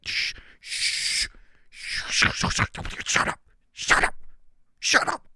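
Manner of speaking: unvoiced whispered shushing; mock hushing. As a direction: pretend to silence an awkward question, whispering. Mock silencing of the question.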